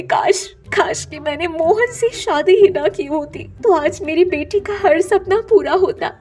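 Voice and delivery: mildly weepy, remorseful mother; tearful mother. Acted. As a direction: apologize to your child through acted tears. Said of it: "उससे रोते हुए बोलती है".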